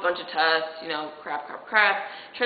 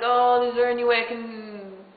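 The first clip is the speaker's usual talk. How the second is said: starting to freak out; 5 semitones higher, 4 dB louder than usual. Retold or imitated. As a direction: act out mounting panic as you plead. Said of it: "starting to freak out".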